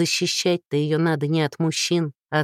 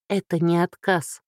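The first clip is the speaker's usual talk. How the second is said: usual speaking voice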